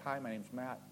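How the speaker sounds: low, soft, dopey fish voice; a hint of a dim goldfish; forgetful fish. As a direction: play a fish that loses its thought. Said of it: "Fish is like".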